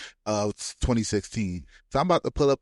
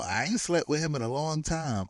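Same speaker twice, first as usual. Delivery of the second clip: higher-pitched imitated denial; mock-earnest denial in a raised pitch; retold protest; 4 semitones higher, 3 dB quieter than usual. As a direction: imitate someone protesting innocence. Retells his denial of sleeping together.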